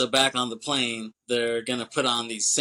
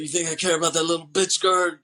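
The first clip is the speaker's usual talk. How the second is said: mock yell; 6 semitones higher, 6 dB louder, faster than usual. Retold DEA agent yelling.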